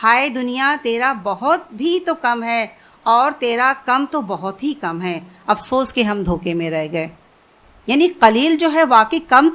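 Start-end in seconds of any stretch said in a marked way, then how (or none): 0.0-7.1 retold weeping lament. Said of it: "رو کر کہنے لگے".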